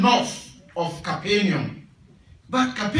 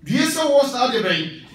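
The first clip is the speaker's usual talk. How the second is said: sorrowful pity; 4 semitones higher than usual. Shown as a demonstration. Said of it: "The woe expresses a sorrowful pity".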